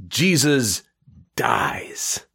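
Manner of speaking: high Jesus, then a whispered, weepy dies; mock grief. Telling the joke at heaven's gate, mock tearful whisper. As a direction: fake a sob on dies.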